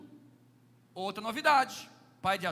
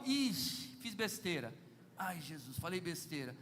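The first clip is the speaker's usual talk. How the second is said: worried muttering; 6 semitones lower, 5 dB quieter than usual. Retold or imitated. Husband afraid he upset his wife, lower and softer. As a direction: lower and softer, a guilty aside. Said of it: "até eu falo".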